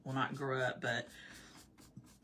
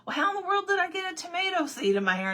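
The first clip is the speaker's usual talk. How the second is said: high, fast, loud fretting; squeaky-high incredulous question; retold bafflement; 13 semitones higher, 5 dB louder, faster than usual. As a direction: re-enact flustered disbelief at a rush.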